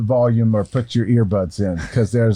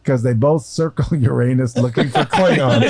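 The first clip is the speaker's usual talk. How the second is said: laughing. Real, not acted. Punchline told while laughing.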